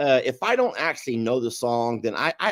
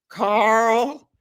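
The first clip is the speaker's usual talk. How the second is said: put-on old man answering; 10 semitones higher, 3 dB louder than usual. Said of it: "He goes".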